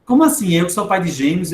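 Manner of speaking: acted outrage, pulling rank; indignant disbelief. Parent of twins challenged by children, indignant disbelief.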